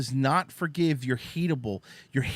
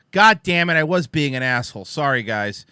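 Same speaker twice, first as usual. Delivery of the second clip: mock outburst; 7 dB louder than usual. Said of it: "And she goes".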